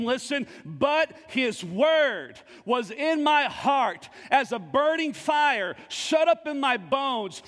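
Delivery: slow, deliberate reading of Jeremiah; scripture reading. Acted. Preacher reading Jeremiah to the congregation, slow and measured. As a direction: lean into each phrase slowly. Reads Jeremiah verse slowly.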